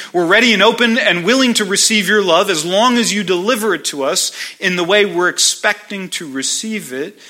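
fast, loud, eager insistence; conditional offer. Retold or imitated. People telling God their terms, fast and pushy. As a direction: rush it out like laying down terms. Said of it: "and we tell him".

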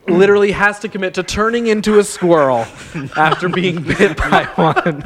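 laughing through the words. Real, not acted. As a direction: let laughter break in. Laughing while speaking.

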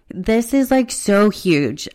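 tearful, voice breaking up; slow, trembling, near tears; shaky sigh. Real, not acted. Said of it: "my voice is shaking because I'm trying not to cry".

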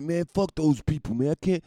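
mock outrage from the kicked-out guy; indignant cokehead. Coked-up guy complaining to the comedian, in indignant mock outrage. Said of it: "He's indignant".

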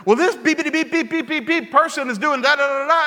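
mock kid's swearing rant with beeps; son cursing, beeped out. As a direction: imitate a worked-up son at his video game. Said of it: "he is cursing up a storm".

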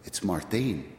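put-on "Martin" as mar-THEEN, lightly Spanish-accented; children's Spanish accent. Village children naming the visitor, Spanish accent. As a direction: imitate Spanish-accented kids saying "Martin". Children's pronunciation of his name.

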